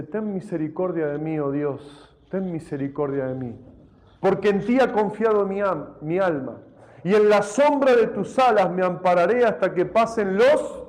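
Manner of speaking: measured, solemn reading; scripture reading. Acted. Preacher reading the psalm to the church, solemn. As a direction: read the psalm with reverence.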